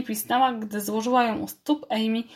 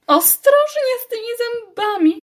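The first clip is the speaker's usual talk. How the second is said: muttered aside; 14 semitones higher, 7 dB louder than usual. A narrator's reading. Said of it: "mamrotała na stronie".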